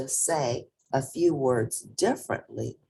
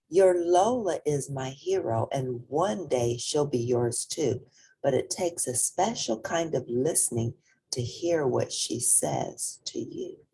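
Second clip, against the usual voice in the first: gentle mother. Acted. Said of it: "Mommy gave a gentle look".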